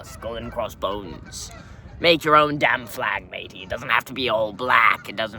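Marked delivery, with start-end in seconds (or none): 0.0-1.5 Skull and Crossbones drawn out slowly in scorn; mock Skull and Crossbones like a tired cliché.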